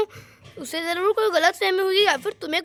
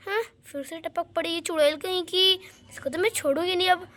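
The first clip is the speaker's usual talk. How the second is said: softer grumbling aside; muttered aside; 6 dB quieter than usual. Acted. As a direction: grumble it under your breath. Meera mutters aside about Alexa. (Alexa के बारे में धीमे से बड़बड़ाती मीरा)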